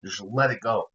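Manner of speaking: hushed whispered plea. Real, not acted. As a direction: whisper it to stop him. Hushing the co-host.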